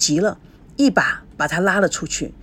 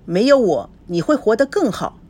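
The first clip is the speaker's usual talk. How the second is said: coldly; 4 semitones higher than usual. Acted. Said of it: "孙娜冷冷地说".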